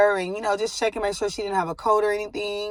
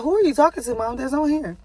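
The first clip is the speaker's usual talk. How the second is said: voicing the baby; 4 semitones higher than usual. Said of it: "She's like".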